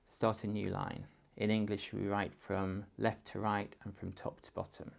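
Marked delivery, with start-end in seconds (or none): 0.0-1.1 put-on calm a worried child, pitched up to start; soothing, then settle down; reassuring. Shown as a demonstration. Parent reassuring a child who ran out of space, gently.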